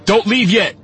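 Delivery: high, loud yelled plea. A narrator's reading. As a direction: yell after people about to go. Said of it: "an F B I agent yelled".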